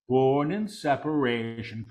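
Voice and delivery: deliberate full-voice repeat; measured proclamation. Real, not acted. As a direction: proclaim it clearly, word by word. Same words repeated in full voice.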